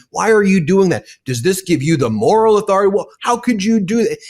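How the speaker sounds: shrill-pitched mock scolding reporter voice. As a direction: ham up the pearl-clutching journalist. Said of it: "I call them the regime".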